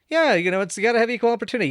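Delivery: mock dumb movie guy. Acting out movie ad-lib bit.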